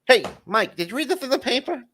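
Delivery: fast, high Jay Leno headline voice. Acted. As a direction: do Leno's quick high setup. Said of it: "you're gonna read 'em as Jay Leno".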